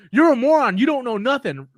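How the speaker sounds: lightly acted angry troll; mock pissed off. Imitating a commenter insulting the video maker, mock angry. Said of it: "they will get so pissed off".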